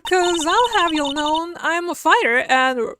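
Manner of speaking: a touch of Southern twang; Southern woman voice. Acted. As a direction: play a sassy country gal. Defiant Southern character.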